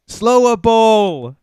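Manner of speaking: high, drawn-out mock Scouse call; imitated Scouse stranger. Stranger hailing the driver beside him, imitated Scouse accent. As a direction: stretch the nickname slowly, up high in attempted Scouse. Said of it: "And he's like".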